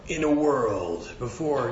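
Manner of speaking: lightly voiced trailer announcer; movie trailer voice. Shown as a demonstration. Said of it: "movie trailer voice here".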